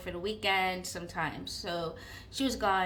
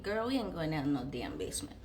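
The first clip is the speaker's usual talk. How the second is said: sassy refusal; 5 semitones lower, 4 dB quieter, faster than usual. Retold or imitated. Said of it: "us girls in the dorm were like".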